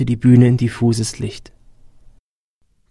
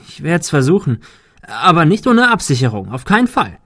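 higher, emphatic voiced reply; firm objection; 5 semitones higher, 4 dB louder than usual. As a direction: insist on safety, pitch climbing. Character objects to unsecured climb. (nachdrücklich widersprechend)

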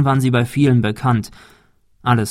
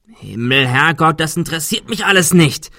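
shouting; 5 semitones higher than usual. Acted. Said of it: "schrie Adrian".

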